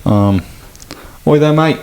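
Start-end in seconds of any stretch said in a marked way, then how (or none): 1.3-1.8 mock cockney greeting, higher and louder; a quick stab at a British accent; a lightly put-on British accent. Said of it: "Do your British accent".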